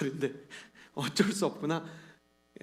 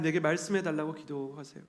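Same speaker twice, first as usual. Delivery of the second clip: normal talking voice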